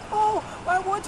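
mocking her. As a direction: mimic her shocked question. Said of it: "She's like".

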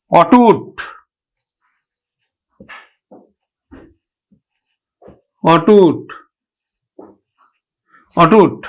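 অটুট repeated as "aw-tut", long pauses between; open initial vowel. Shown as a demonstration. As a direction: model অটুট carefully with open "aw". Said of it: "অ এর মতোই উচ্চারণ হবে". (অটুট-এর অ বিবৃত উচ্চারণ)

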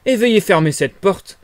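loud, high, irritated order; irritated shout. Acted. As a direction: snap at the intruder to shut the door. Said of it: "cria monsieur Cuss d'un ton irrité". (cri irrité, fort et aigu)

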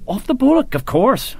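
scornful Ulster sergeant, first word leaping high. Acted. Sergeant scorning his officer's city ignorance, scornful. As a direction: scoff at the city man's ignorance. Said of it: "with all the scorn of a country-raised man".

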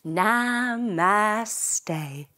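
bow and say it gently; calm namaste. Shown as a demonstration. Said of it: "we say namaste".

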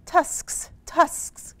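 high-pitched, hammed-up boar shout; mock shout. Boar pushes the animals to dig with tusks, high mock shout. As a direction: yell it like an eager little boar. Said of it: "shouted Boar".

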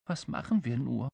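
mildly dejected king; a touch of helpless worry; unhappy. Acted. King at a loss for a plan, mildly unhappy. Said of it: "fragte der König ganz unglücklich".

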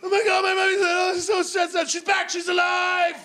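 put-on high, loud overjoyed little kid; frantic toddler. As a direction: gush with shouted relief. Toddler relieved as mum returns.

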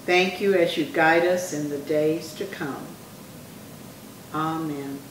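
measured prayer in short phrases. Acted. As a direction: lead a prayer for others to repeat, pausing after each phrase. Leads a repeat-after-me prayer.

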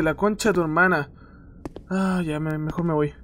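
ordinary talk

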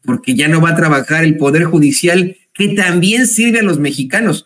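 mock-lament, tongue in cheek; mock despair over the judicial strike; sarcastic. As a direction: pretend to mourn the end of justice, dripping irony. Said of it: "Nótese mi sarcasmo".

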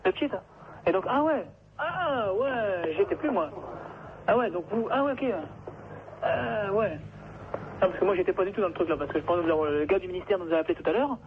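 tinny telephone sound; over the phone. Real, not acted. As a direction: voice through a phone line. Callee speaking on the phone. (au téléphone)

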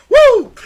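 loud, high whoop; high-pitched holler of excitement; excited whoop. Real, not acted. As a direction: let out a big hyped-up "woo". Hype whoop after his punchline.

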